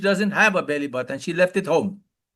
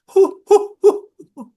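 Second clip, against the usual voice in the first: hooting laugh, high and loud; high hoo laugh; 13 semitones higher, 7 dB louder than usual. Shown as a demonstration. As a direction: demonstrate a belly hoo hoo laugh. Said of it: "And this time you go".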